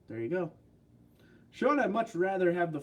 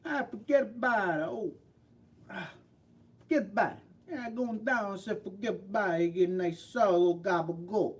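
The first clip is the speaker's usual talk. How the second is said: put-on pitched-up New York Italian-American accent; mock New York accent; 4 semitones higher than usual. Imitating local accents for the stream, hammed-up New York accent. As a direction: ham up a "forget about it" New Yorker.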